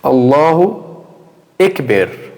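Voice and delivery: slow Allahu, then EKBER with E vowels for Akbar; incorrect pronunciation. Shown as a demonstration. Teacher shows students the mistake, E-vowel mispronunciation. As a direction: demonstrate the mistake slowly, "Ekber" with an E. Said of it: "Tu falar incorretamente é tu falar assim".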